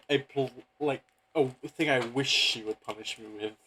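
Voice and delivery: ordinary delivery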